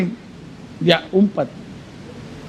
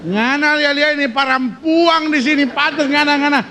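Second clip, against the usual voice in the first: jealous wife; 3 semitones higher, slower than usual. Acted. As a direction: accuse him, voice up and teasing. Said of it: "Dia mulai bilang".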